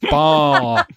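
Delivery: "Bar" high and long, like a bleat; "Bar" as a long open BAA, no R; demonstrated vowel. Shown as a demonstration. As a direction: draw "Bar" out as in Baa Baa Black Sheep. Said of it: "it's like Bar Bar Black Sheep".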